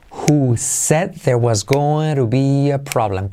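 slow model sentence. Shown as a demonstration. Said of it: "Ahora repite conmigo".

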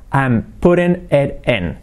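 linked "I'm putting it in"; linked pronunciation. Shown as a demonstration. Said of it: "truco de pronunciación".

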